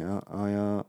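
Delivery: high schooler mumble. Acted. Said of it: "高校生が友達と話す時に".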